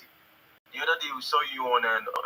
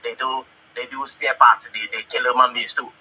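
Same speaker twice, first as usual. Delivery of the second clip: mocking voice; 4 semitones lower, 6 dB louder than usual.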